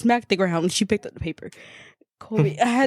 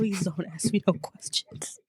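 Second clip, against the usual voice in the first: soft, slow plea through laughter; hushed, drawn-out, giggly mock begging; laughing plea; 2 semitones lower, 7 dB quieter than usual. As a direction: retell a dreading plea while cracking up. Retold silent plea, cracking up.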